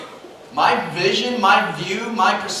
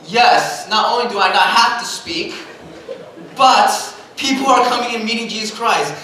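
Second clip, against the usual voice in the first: retold pastor's excitement, punched out; emphatic, hyped yes; 2 semitones higher, 3 dB louder than usual. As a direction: celebrate like a hyped-up preacher. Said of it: "getting all hyped up as a pastor".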